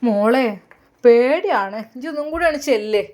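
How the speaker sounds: mother mildly cross with her daughter; a little angry. Acted. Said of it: "ഉമ്മ ദേഷ്യത്തിലാണ് അല്പം".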